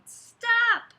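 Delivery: sharp, loud, high shout of stop; startled parental yell; parents yelling. Acted. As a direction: yell it like a parent catching a kid mid-climb. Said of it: "Her parents yelled".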